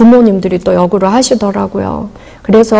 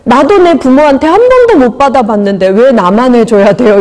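imitating tearful mother; 2 semitones higher than usual. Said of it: "막 울면서 이러세요".

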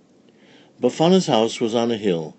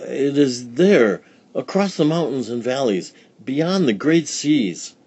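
put-on old village woman; 5 semitones higher than usual. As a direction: describe the far road grandly. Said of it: "said Befana".

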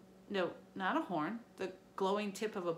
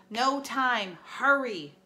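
urgent; 4 semitones higher, 8 dB louder, much slower than usual. A narrator's reading. Urging him to hurry.

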